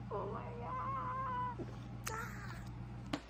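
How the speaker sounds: high, slow breathless wail; real overwhelmed high wail. Real, not acted. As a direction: let it out, emotionally overwhelmed. Overwhelmed by the book.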